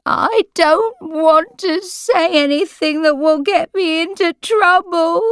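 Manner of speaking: put-on tearful old woman begging the carer; moaning. A narrator's reading. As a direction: plead through tears, frightened. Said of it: "she moaned".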